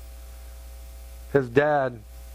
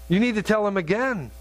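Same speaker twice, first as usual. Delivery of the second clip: higher, more insistent repeat of the urging; pleading repeat; 4 semitones higher than usual. Retold or imitated. Wife begging husband to go back, higher and insistent. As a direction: push harder the second time, pitch up. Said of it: "she's in tears".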